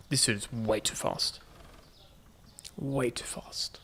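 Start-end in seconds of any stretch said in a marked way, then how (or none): 2.7-3.8 slow, hushed whisper; whispered echo. Real, not acted. Player echoing own remark on a fast dude, whispered. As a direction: stretch it out in a whisper.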